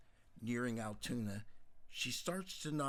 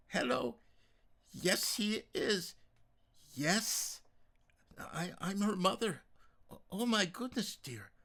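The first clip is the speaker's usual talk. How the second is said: alarmed on phone; 10 semitones higher, 6 dB louder than usual. Acted. Mother answers alarming phone call.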